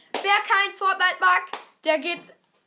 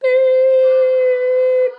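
quack censor; 7 semitones higher, 11 dB louder than usual. Pretend. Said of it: "Ich will das Meme machen".

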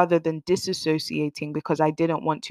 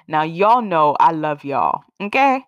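playful American accent to listeners; 4 dB louder than usual. Real, not acted. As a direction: put on a friendly American accent. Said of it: "I always go into an American accent".

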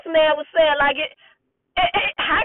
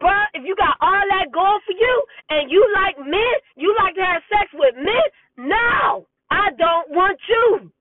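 retold refusal; 5 semitones higher than usual. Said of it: "And so I'm like".

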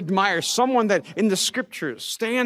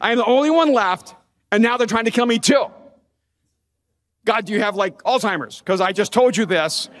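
exasperated outburst; 3 dB louder than usual. Retold or imitated. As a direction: vent at God like he isn't listening. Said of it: "So I'm telling you again".

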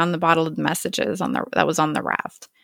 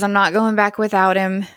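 retold yelling. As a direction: insist he won't leave the boy, raised but restrained. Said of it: "he's still yelling".

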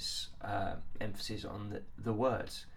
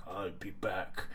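Arnie impression; 3 semitones lower, 4 dB quieter, slower than usual.

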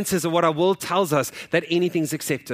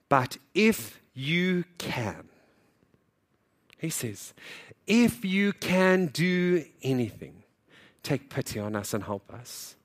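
weary desperate plea; slower than usual. Acted. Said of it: "the sense of weariness".

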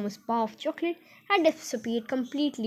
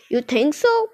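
a touch louder, mildly challenging; challenging cry; 3 semitones higher, 4 dB louder, slower than usual. Acted. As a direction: toss back a lively challenge. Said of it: "cried Mister Wonka".

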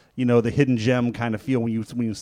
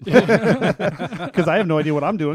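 laughing; 6 semitones higher, 6 dB louder, slower than usual. Real, not acted. Laughs while telling the story.

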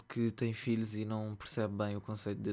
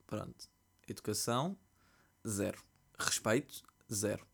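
dry verdict. Retold or imitated. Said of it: "E eu fiquei tipo".

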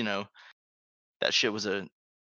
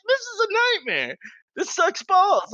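much higher, quick whiny voice; mock despair; 4 dB louder than usual. Laughed-at kid in the cafeteria, whiny despair. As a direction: whine it like a humiliated kid. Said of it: "I'm like".

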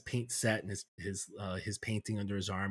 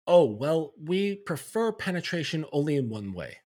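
mocking quote; 5 semitones higher, 5 dB louder than usual. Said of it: "we cannot say".

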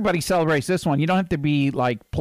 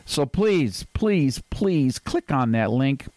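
cowering plea. Acted. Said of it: "I sound like Jerry Lewis".

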